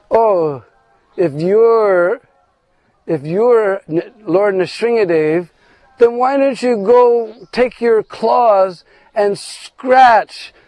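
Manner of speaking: high, slow teasing dare; mocking challenge. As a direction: taunt him, drawing it out slowly. Lalita mocks Krishna's boast.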